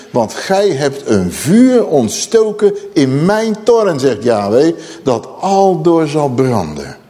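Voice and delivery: slow, ringing voice of divine judgment; solemn scripture declamation. Acted. Preacher proclaiming Yahweh's words to Judah, slow solemn declamation. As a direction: stretch the key words like a prophet.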